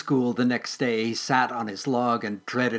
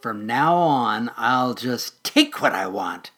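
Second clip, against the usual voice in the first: slow, louder, menacing threat; vicious; 5 dB louder, slower than usual. Acted. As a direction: lean in and threaten him slowly. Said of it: "the mole added viciously".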